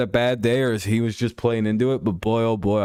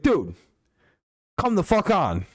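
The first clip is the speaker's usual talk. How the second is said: much higher, exasperated mock of a viewer; mock angry viewer; 9 semitones higher than usual. Streamer mocking a viewer who got upset, high exasperated squeak. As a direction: squeak out the annoyed viewer's complaint. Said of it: "some guy here who was like".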